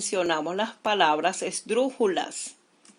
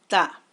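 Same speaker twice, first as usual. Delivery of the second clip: "Ta" alone, punched louder; stressed syllable; 5 dB louder than usual. Shown as a demonstration. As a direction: hit "Ta" as one firm, isolated beat. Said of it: "Lleva su mayor golpe de voz".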